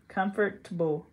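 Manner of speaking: comfortable split as comfort-bull; careful comfort-bull. Shown as a demonstration. Trying out ways to say comfortable, careful comfort-bull. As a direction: say comfortable in separated syllables. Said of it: "How do you say comfortable?".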